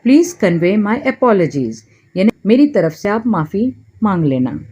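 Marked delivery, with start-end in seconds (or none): 0.1-1.7 very slow, every word laid out clearly; slow model phrase. Shown as a demonstration. Teacher slowly models an English apology for Hindi learners. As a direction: say it slowly so learners can repeat it. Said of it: "convey यानी मेरा message पहुँचाना".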